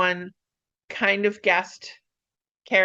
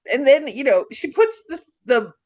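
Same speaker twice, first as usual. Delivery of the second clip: real excitement, pitch climbing; very excited; 4 semitones higher than usual. Real, not acted. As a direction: stumble ahead excitedly, voice rising. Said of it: "I'm getting very excited".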